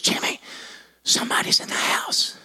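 hushed, unvoiced stage whisper; urgent whisper. Mom waking her son about an intruder, urgent whisper.

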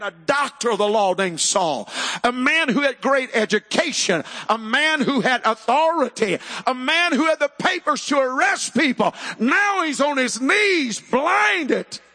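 high, ringing sermon cry; impassioned preaching. Real, not acted. Preaches at full force.

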